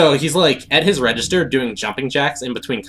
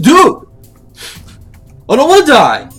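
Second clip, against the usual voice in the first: very high, loud terrified yelling; panicked yell; 14 semitones higher, 12 dB louder than usual. Retold or imitated. Craig yells at his coworker in high-pitched terror. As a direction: wail it like you're doomed. Craig told he will probably die.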